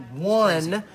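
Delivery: slow, loud hype; excited shout. Real, not acted. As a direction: hype every word. Hyping the prize count.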